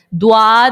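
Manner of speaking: دواد with a w glide and long a; دواد, rounded d opening into a long a; mistaken "dwad". Shown as a demonstration. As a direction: say دواد as "du-waad". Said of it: "دواد بھی پڑھتے ہیں".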